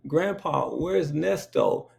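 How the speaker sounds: a hint of a small child asking; little child asking. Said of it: "I was like".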